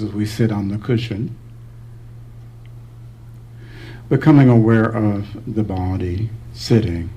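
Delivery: unhurried meditation guidance with long pauses; calm, spacious meditation voice; guided meditation. Real, not acted. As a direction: guide them gently through the body, leaving space between phrases.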